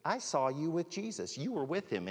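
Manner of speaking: high-pitched imitation of a girl; accusing girl. Girl by the fire recognizing Peter, accusing.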